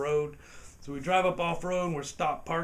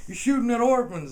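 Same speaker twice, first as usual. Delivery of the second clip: mock cop voice; 8 semitones higher, 9 dB louder than usual. Cop's stern reply.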